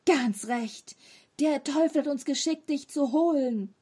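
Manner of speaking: loud, booming threat; thundering shout. A narrator's reading. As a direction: thunder it down at the boy. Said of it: "Mit donnernder Stimme schrie Tom". (donnernd laut geschrien)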